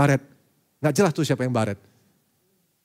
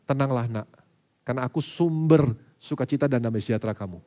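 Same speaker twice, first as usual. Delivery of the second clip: comforting voice of God; 5 semitones lower than usual. Retold or imitated.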